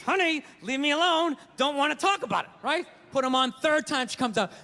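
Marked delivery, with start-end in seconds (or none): 0.0-2.5 forced words through clenched teeth; strained, teeth-clenched restraint; through gritted teeth. Retold or imitated. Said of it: "Talking through my teeth".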